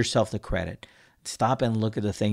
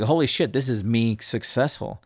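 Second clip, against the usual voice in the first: mild triumph. Acted. Host voicing a listener who someday succeeds, mildly triumphant. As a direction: say it in one go, pleasantly amazed at yourself. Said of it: "someday you're gonna be like".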